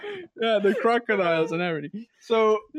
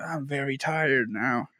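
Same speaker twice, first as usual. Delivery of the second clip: A rapper; 4 semitones lower, 4 dB quieter, slower than usual. Pretend. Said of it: "a voiceover of Snoop Dogg saying".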